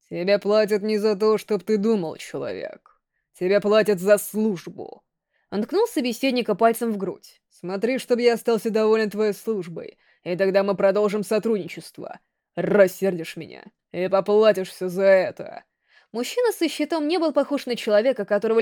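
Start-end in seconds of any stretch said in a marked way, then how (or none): 0.1-5.0 very deep voice. Acted. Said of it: "У него был очень низкий голос". 7.5-15.6 very deep voice. Acted. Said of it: "У него был очень низкий голос".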